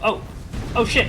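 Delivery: a real jolt of fright, loud and high; startled shout. Real, not acted. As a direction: blurt it out as the attack lands. Ambushed by enemy in fight.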